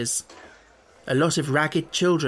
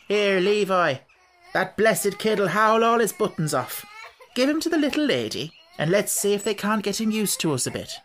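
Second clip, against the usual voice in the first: higher, laughing gypsy woman; good-humoured gypsy woman; 6 semitones higher than usual. Acted. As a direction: chide Levi with a laugh.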